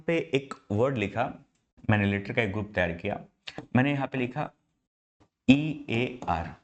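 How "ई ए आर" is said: slow, letter by letter spelling. Shown as a demonstration. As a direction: spell each letter out slowly, one at a time. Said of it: "आप इसका उच्चारण करिए".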